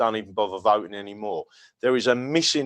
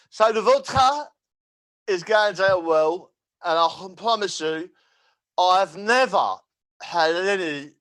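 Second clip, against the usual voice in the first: high, loud, slow mocking politician voice; drunken slurring Pelosi parody; Nancy Pelosi impression; 7 semitones higher, 5 dB louder than usual. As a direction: ham up a tipsy Pelosi. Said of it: "That's my impression of Nancy Pelosi".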